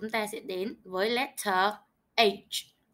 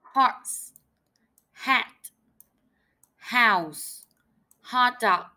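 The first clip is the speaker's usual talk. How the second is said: teacher modelling; slower than usual. Shown as a demonstration. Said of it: "một lần với cô nhé".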